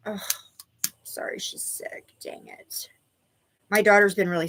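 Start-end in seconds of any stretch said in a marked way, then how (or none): 0.1-2.9 whispered, barely voiced. Real, not acted. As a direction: say it under your breath. Worried aside.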